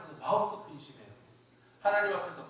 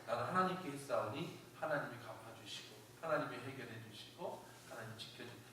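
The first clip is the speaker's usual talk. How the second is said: soft, low prayer of surrender; David; 4 semitones lower, 10 dB quieter than usual. Acted. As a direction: hand it over to God, fading softly. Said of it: "마지막에 이렇게 기도해요".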